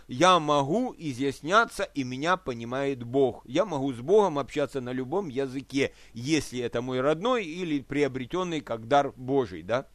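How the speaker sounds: usual speaking voice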